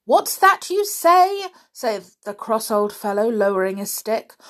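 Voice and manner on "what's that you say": high, loud, slow; gruff loud demand. A narrator's reading. Deaf caretaker demanding what Peter said, loud. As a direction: bark the question.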